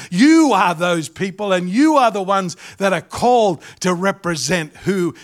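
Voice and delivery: rising, emphatic preacher voice; preaching. Acted. Jesus to disciples, preached with rising force. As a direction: declare it to the church.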